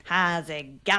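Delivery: dodgy mock-Aussie greeting; forced Australian accent. Host mocking English expats who fake it, forced Australian accent. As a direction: fake a strained Australian twang. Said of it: "dodgy English Australians where it just sounds forced".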